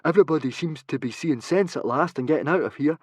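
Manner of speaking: put-on mildly eager boy. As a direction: eagerly share the good news. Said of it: "he said eagerly".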